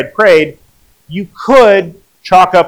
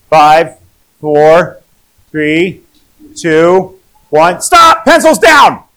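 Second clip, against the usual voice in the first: exam proctor; 3 dB louder, much slower than usual. Acted. Timed classroom quiz countdown.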